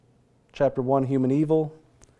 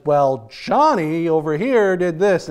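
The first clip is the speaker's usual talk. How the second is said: put-on tattling child; 2 semitones higher, 3 dB louder, slower than usual. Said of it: "And the one says".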